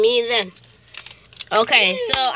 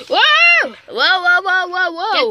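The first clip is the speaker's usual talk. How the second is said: startled yelps; 4 semitones higher, 3 dB louder, much slower than usual. Real, not acted. Startled while character jumps.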